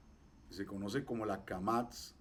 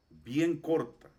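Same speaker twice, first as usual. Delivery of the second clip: "bien corta" slow, raised and stressed; emphatic; 5 semitones higher, 5 dB louder, much slower than usual. Shown as a demonstration. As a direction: punch "bien" high, spacing out "bien corta". Teacher underlines how short the vowel is.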